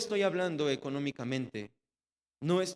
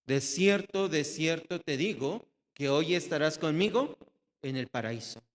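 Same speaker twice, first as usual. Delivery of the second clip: proclaiming promise. Acted. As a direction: announce it boldly like a solemn vow. Jesus's promise proclaimed aloud.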